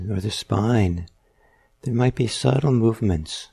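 measured meditation guidance with long pauses; guided meditation. Real, not acted. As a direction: unhurriedly guide listeners into noticing their breath. Leads a guided breathing meditation.

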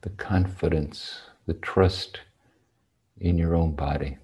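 unhurried meditation guidance with long, spacious pauses; guided meditation. Real, not acted. Teacher settling sitters on their cushions, spaced-out meditation guidance. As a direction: guide sitters gently into posture, phrase by phrase.

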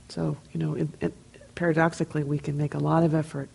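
normal talking voice

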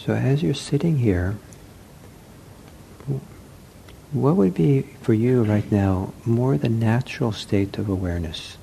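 unhurried meditation guidance with long pauses; guided meditation. Acted. Teacher to seated meditators as they settle, guided meditation. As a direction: gently guide sitters, leaving long silences.

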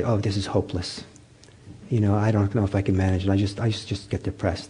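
quiet, sinking, defeated voice; hopeless sigh. Retold or imitated. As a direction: let the words drop off into gloom.

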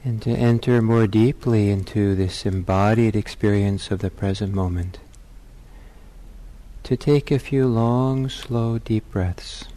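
measured meditation guidance with long pauses; guided meditation. Real, not acted. Teacher settling meditators into their bodies, guided meditation. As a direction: lead them into stillness, leaving space between phrases.

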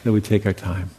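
calm, unhurried guiding voice with long pauses; guided meditation. Real, not acted. Teacher guiding meditators into listening to sounds and silence, calm meditation voice. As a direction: lead them gently, leaving long silences between phrases.

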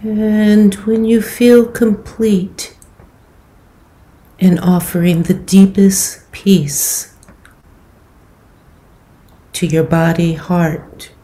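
calm, unhurried meditation guidance with long pauses; guided meditation. Acted. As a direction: gently guide them into settling the body, leaving space between phrases.

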